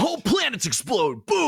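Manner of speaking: big gruff trailer voice; hardcore announcer voice. Retold or imitated. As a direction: boom it out like a trailer. Imitating old Boomstick voice.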